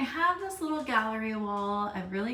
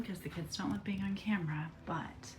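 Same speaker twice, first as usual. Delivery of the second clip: whispering; 6 dB quieter than usual. Real, not acted. Kids don't like being on camera.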